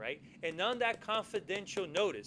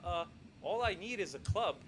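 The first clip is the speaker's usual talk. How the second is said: unsure, halting ask; a nervous guest barely daring to ask; hesitant request. Retold or imitated. Palmer stammering his request to the king, hesitant. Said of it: "So he just says".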